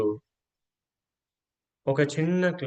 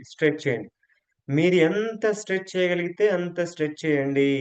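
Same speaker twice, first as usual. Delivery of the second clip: guided yoga stretch; 2 semitones higher than usual. Acted. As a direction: stretch the key words along with the movement. Leads a breathing stretch.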